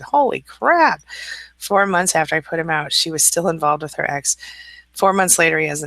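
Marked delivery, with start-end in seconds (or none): 0.0-1.0 high, slow stunned exclamation; drawn-out disbelief; holy crap, stretched in shock. Real, not acted. Shocked by murder-suicide news.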